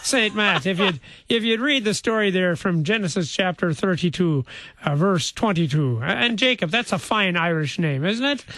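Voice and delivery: playful Irish brogue; jokey Irish accent. Acted. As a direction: make a request in a put-on Irish lilt. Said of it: "couldn't tell through the accent".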